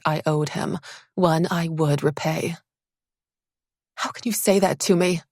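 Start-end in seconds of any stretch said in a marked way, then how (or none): 4.0-5.2 seething. Acted. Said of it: "I seethed".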